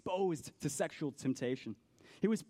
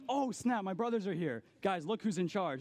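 mock surprise; 5 semitones higher than usual. Joseph's brothers show up.

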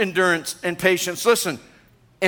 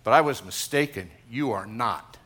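lower mock critic; 9 semitones lower, 4 dB quieter than usual. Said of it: "somebody tell me once, say".

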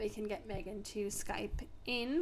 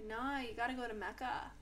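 imitating an Australian shop assistant; Australian store girl impression; Australian accent; 5 dB quieter than usual. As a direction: put on a practised Australian accent. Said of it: "practicing her voice of saying that".

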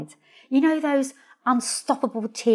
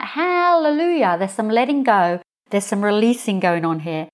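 joyful hallelujah. Retold or imitated. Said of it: "I'm like".

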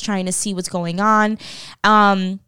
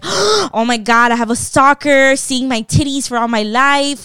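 mock panic, slightly raised; gasp, then wail it with comic alarm; freaking out; 4 semitones higher, 4 dB louder than usual. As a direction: re-enact an exaggerated freak-out. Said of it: "freaking the fuck out".

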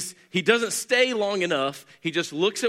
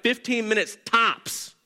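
drawn-out mock confidence; 4 semitones higher, slower than usual. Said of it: "we're like".

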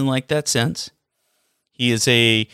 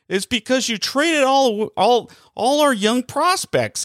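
high mock voices of players needling the boss; mocking players' voices; 5 semitones higher than usual. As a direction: tease the GM in a higher, jeering voice. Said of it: "Everybody else in the background's going".

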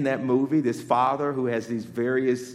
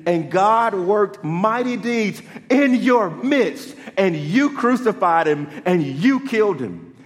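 preaching Peter; 8 semitones higher, 8 dB louder than usual. Retold or imitated. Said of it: "Peter actually goes and preaches".

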